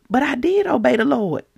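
mild pleading objection; acted protest. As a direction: insist mildly on DID. Saul protests to Samuel, first take.

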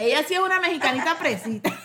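echoing the tease through laughter; playful laughing echo; laughing repeat. Real, not acted. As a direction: laugh while saying "mexicanita fresita".

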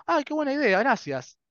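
very high-pitched playful revelation; mock delight. Answering one's own suggestion, mock delight. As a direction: squeal a pretend thank-you for the bright idea.

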